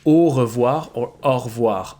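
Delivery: Au revoir with a closed o, then au revoir with an open aw. Shown as a demonstration. Teacher contrasting the two O sounds. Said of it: "an open O or a closed O".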